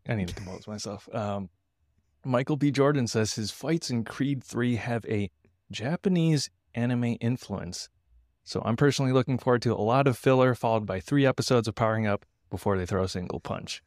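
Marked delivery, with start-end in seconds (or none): 2.2-13.8 monologue joke delivery. Shown as a demonstration. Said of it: "in the style of a monologue joke".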